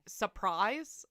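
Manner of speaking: "surprise" as "suh-prise", first R dropped; SURPRISE without the R. Shown as a demonstration. Streamer checking a Southern viewer's way, SURPRISE without R. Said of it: "we don't really pronounce the R's".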